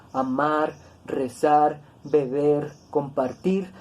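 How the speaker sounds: "amar, rezar, beber, compartir", each stressed on its final syllable; stress on last syllable. Shown as a demonstration. Teacher listing agudas examples, end-stressed. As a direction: land on MAR, ZAR, BER, TIR in "amar, rezar, beber, compartir". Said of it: "tienen el acento en la última sílaba".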